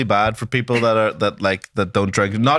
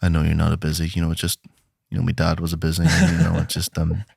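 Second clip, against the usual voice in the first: low, soft, hesitant confiding; haltingly bare your soul, played for laughs; understated mock-sorrowful admission; mock confession; 5 semitones lower, 3 dB quieter than usual. Imagines the man's tearful confession.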